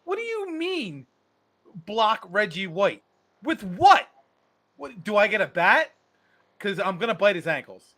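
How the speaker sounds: small player protesting. Retold or imitated.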